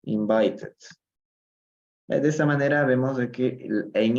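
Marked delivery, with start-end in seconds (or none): 0.0-0.8 "Invited" in three clear syllables; last syllable pronounced. Shown as a demonstration. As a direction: sound the final -ed of "Invited" as its own syllable. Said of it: "se pronuncia la tercera, la última sílaba".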